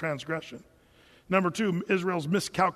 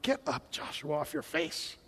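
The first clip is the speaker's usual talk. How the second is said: God scolding; 4 semitones lower, 9 dB quieter than usual. Retold or imitated. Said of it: "He's like".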